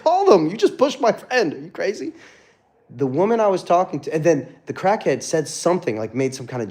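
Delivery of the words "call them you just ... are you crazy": retold angry shout. Confronting woman threatening police.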